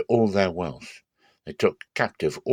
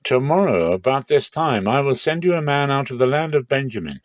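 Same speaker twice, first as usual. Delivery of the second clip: divine announcement; 5 semitones higher, 3 dB louder than usual. Acted.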